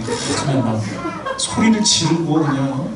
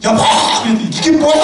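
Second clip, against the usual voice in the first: much higher, louder imitated outburst; mock yell; 9 semitones higher, 5 dB louder than usual. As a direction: yell at the husband in mock anger. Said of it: "목소리 올라가는".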